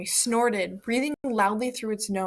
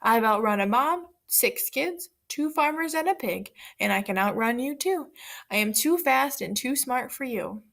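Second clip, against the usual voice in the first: boastful; 2 semitones higher than usual. Acted. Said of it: "The pancake shouted".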